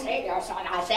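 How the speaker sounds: a touch of a blustery cartoon rooster. Quoting a childhood cartoon, light cartoon rooster voice. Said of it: "cartoons of my childhood".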